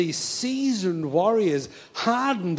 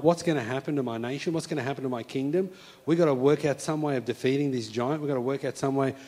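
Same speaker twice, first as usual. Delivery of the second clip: worried king; 5 semitones lower, 4 dB quieter, faster than usual. Acted. King frets over his kingdom.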